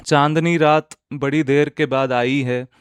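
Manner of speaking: measured, projected verse reading; ghazal recitation. Acted. Recites a couplet.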